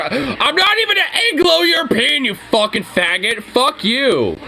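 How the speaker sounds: indignant outburst, pitch jumping up; real angry rant. Real, not acted. Angry rant at a reddit comment.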